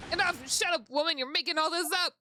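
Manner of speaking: loud, high courtroom shouting; acted furious shout at a witness; angry outburst.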